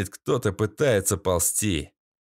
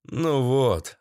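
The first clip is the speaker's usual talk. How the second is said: plain reading voice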